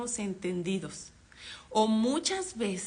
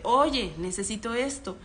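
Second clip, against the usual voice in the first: a bit louder; 5 dB louder than usual. Retold or imitated. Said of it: "le dices un poco más fuerte".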